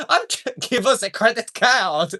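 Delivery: high, slow mock French demand; laughing through a fake French accent; bad French accent. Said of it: "I'm pretty sure French Canadian".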